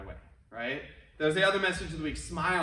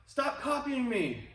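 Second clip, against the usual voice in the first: higher, slow, drawn-out call; mild mock shout; 6 semitones higher, slower than usual. The kid shouts at the echo, slow mock yell. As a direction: call out across the valley, annoyed. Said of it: "So they shout back out".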